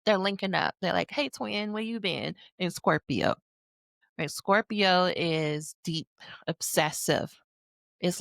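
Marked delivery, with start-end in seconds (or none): 1.1-2.3 hushed buddy greeting. Acted. Mars greeting Mercury like friends.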